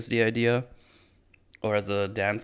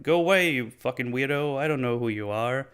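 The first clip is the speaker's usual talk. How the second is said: mildly irritated, raised retold voice; acted-out rebuff, pitched up at the start; dismissive brush-off; 3 semitones higher than usual. Storyteller voicing a man shooing a weirdo away, mildly annoyed.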